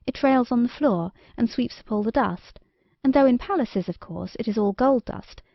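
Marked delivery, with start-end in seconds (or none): none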